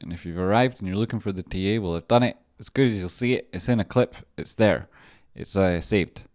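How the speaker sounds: a hint of a showman's pitch; odd loud announcing voice. Real, not acted. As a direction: announce it proudly to the viewers. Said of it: "Don't know why I'm speaking like that".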